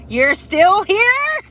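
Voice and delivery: high, loud and slow disbelief; retold shocked cry. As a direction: stretch it out in outrage. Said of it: "I'm like".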